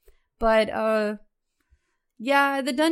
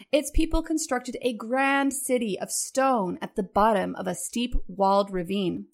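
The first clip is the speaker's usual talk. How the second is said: epic fantasy narrator; 2 semitones lower than usual. Shown as a demonstration. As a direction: read it like a fantasy game trailer. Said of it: "why don't you go ahead and read us".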